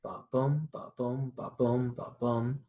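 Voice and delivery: "ba boom" with weight on "boom"; rhythm beat. Shown as a demonstration. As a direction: chant the iambic beat. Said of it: "unstressed stressed".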